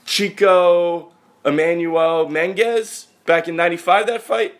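high, slow, eager New York cabbie build-up; a New York cabbie dragging out a boxing memory. Retold or imitated. Cabbie quizzing his passenger about an old fight, eager and high. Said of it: "he's like".

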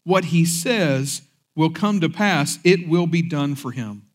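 measured, solemn Bible reading; scripture reading. Acted. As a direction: read the verses with weight, slowing at the end. Reads scripture aloud.

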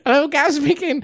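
high, loud mocking imitation of a posh kid; whiny posh youth.

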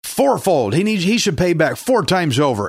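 lightly acted snap of indignation; snapping. David passes judgment on the guilty man, mildly snapping. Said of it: "David snapped and says".

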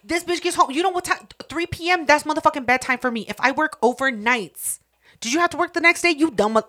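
incredulous rant. Real, not acted. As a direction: go off in real disbelief. Outraged rant at the story.

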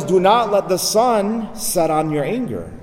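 slow, measured scriptural warning; mildly stern, unhurried admonition; solemn warning. Retold or imitated. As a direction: warn them deliberately, drawing the words out. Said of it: "Saint Paul warns us".

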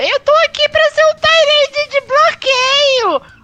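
high, hammed-up jock voice; mock Gronkowski voice. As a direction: shout it like a proud blocker. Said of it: "Ele não tinha vindo só pra".

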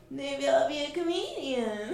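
high, half-laughing joke; laughing quip. Retold or imitated. After the runway flop, high laughing quip. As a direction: shrug it off through a giggle. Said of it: "And I was like".

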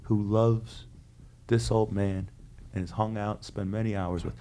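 emotional speech. Retold or imitated. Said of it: "points to these tables and goes".

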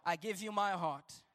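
hushed congregational prayer; led prayer. Shown as a demonstration. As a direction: pray it gently, line by line. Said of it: "Raise your hands and say".

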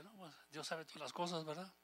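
the spirit answering the flesh, softly trusting; calm trusting voice of the spirit. Acted. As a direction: hush down and trust God gently.

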